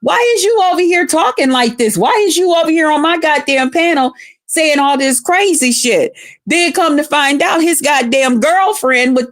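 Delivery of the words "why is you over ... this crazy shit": retold confrontation. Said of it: "I was like".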